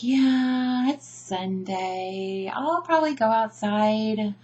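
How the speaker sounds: laid-back lazy drawl, words stretched out; chilled-out Sunday mood, no hurry; drawn-out, easygoing delivery; really chill. Acted. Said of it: "when we're really chill and we're just like".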